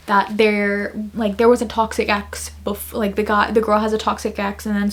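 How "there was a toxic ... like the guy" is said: ordinary talk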